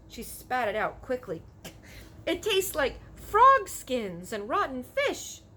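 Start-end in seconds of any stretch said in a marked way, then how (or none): 2.2-5.4 put-on disgusted girl. Sophie reacts to taste.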